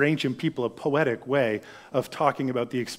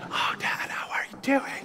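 stage whisper back at Dad; 9 semitones higher, 8 dB quieter than usual. Retold or imitated. Kids whisper back to their sick dad, eager. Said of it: "they started whispering back to me".

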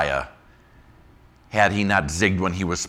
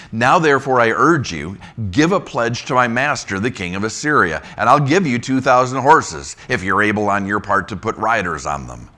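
raised, louder reading voice; scripture reading; 4 dB louder than usual. Acted. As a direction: read the verse out to the church. Reads scripture verse aloud.

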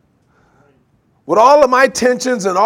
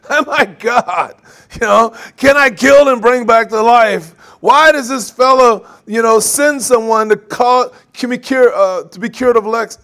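panicked king; 3 semitones higher, 4 dB louder than usual. Retold or imitated. King of Israel panics, quoted.

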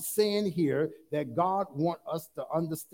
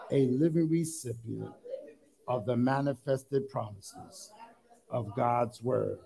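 measured congregational creed, phrase by phrase; declaration of faith. Acted. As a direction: lead them in declaring it, pausing after each line. Leads congregation in Bible declaration.

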